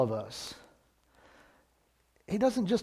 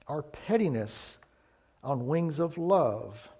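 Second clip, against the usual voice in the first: poem recital; 4 dB louder than usual. Acted. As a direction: recite it like a devotional poem, softening at the end. Reads Helen Steiner Rice poem.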